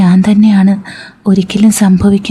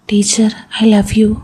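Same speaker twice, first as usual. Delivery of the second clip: slow whisper; 3 dB quieter, slower than usual. Acted. Confessing love in bed at night.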